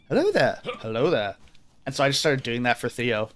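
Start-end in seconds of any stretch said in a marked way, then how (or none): 0.1-0.6 high-pitched British greeting; Obi-Wan Kenobi. Retold or imitated. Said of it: "after watching Star Wars going". 0.8-1.4 low, falling British greeting; Obi-Wan Kenobi. Retold or imitated. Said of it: "after watching Star Wars going".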